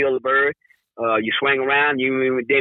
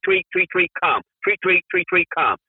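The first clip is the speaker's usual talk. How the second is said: whistle imitation; 4 semitones higher than usual. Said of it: "I'll go tweet".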